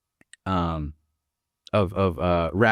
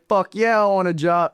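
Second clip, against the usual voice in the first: eager yes; 10 semitones higher than usual. Retold or imitated. Narrator accepting Ernest's job offer, excited and higher. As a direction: jump at the offer, pitched up.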